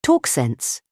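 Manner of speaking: brusque interruption; short. A narrator's reading. Syme interrupting Gregory, short. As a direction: cut him off curtly. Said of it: "said Syme shortly".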